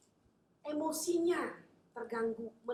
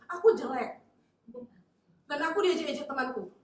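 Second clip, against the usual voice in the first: whiny, louder self-pity; loud complaint; 5 semitones higher, 13 dB louder than usual. Acted. Believer complains to Jesus, loud self-pitying wail. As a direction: complain loudly about being mocked.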